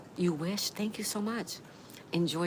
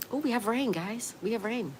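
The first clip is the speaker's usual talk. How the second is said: higher-pitched, real surprised delight; excited announcement; 5 semitones higher than usual. Real, not acted. Streamer telling chat that rain has started, excited.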